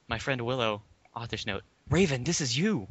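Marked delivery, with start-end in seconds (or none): 1.9-2.9 gushing author. A narrator's reading. Author's note aside.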